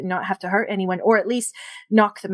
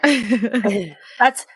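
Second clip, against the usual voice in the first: gnoll voice. Acted. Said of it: "this is my gnoll voice".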